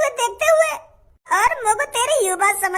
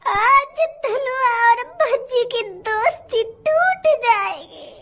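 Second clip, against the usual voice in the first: fake crying; much slower than usual. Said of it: "काय को नाटक कर रहा तू मेरे सामने रोने का".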